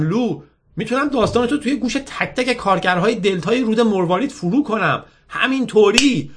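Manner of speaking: put-on high-pitched girl bragging eagerly; boastful, upbeat girl. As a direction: win him over by boasting of your fame. Girl boasts of her fame.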